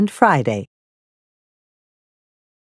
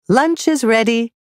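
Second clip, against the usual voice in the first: Mom calling out; 5 semitones higher than usual. Shown as a demonstration. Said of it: "said Mom".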